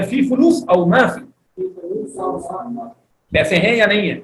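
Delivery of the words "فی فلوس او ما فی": فی فلوس او ما فی said slowly and high; slow high model. Shown as a demonstration. Teacher drilling students, slow raised voice. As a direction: draw out فی فلوس او ما فی for repeating. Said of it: "تو دوبارہ بولے".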